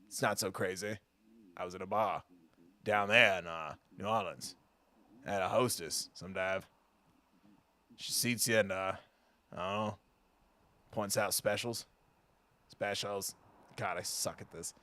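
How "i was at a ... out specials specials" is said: a lightly put-on barfly voice, low and quiet; a half-hearted gruff voice, soon abandoned; regretted character voice. Streamer tries a barfly voice for the game, quietly. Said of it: "This voice was a bad idea".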